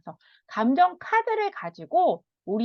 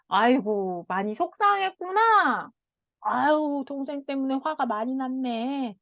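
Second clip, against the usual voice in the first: soothing mother. Shown as a demonstration. Mother comforting her upset child, tender and soothing. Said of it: "이렇게 언어로 읽어주시면".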